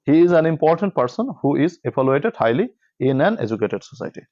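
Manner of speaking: slow, deliberate reading of an English sentence, word by word; slow dictation reading. Shown as a demonstration. Teacher reads exam passage to students, slow dictation. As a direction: read it out slowly so students can follow.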